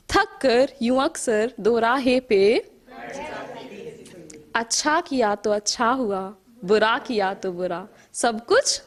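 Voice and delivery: measured verse with rising and falling cadence; poetry recital. Acted. Poet reciting to an appreciative audience, measured poetry recital. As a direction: recite in lilting lines, letting line endings sink.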